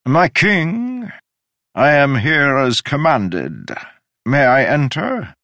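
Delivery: high, slow call through the tent; called from outside. Acted. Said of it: "a voice called".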